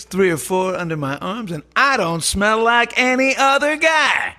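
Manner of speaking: wild-and-crazy stand-up bit; Steve Martin. Acted. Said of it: "do my Steve Martin from".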